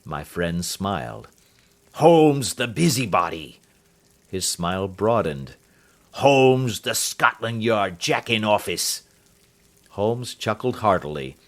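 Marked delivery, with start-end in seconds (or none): 1.9-3.6 scornful insult. Acted. Roylott insults Holmes. 6.1-9.0 scornful insult. Acted. Roylott insults Holmes.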